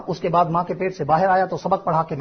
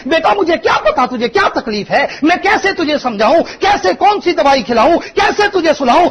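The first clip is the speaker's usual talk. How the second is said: high, loud pleading of a helpless weeping mother; crying mother; 7 semitones higher, 5 dB louder than usual. Retold or imitated. Preacher voicing a mother crying over her sick baby, loud tearful plea. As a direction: beg like a mother who can't soothe her sick child. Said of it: "फिर रो के कहती है".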